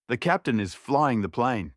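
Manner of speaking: sneering. Acted. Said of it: "Beatrice sneered".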